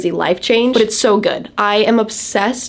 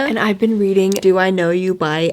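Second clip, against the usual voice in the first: talking with a retainer in; wearing a retainer. Real, not acted. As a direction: speak around a retainer. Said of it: "I have my retainer in".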